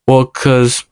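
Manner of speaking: hushed, breathy whisper. Retold or imitated. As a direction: whisper it like a confession. Retelling girlfriend's quiet excuse.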